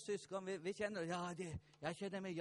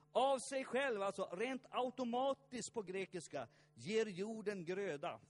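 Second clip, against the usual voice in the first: emphatic preaching; 3 semitones higher, 6 dB louder than usual. Real, not acted.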